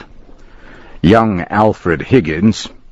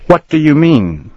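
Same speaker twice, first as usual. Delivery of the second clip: shocked denial; 10 semitones higher, 3 dB louder than usual. Acted. Accused boy denies stealing.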